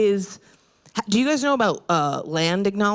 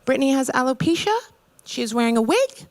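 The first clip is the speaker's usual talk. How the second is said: head witch announcement; 6 semitones higher, faster than usual. Retold or imitated. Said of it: "she goes".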